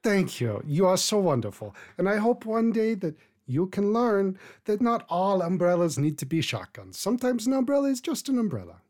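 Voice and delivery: lightly voiced old woman, genteel; a hint of a gracious old matron; elderly lady. Old woman gently chiding her young friend.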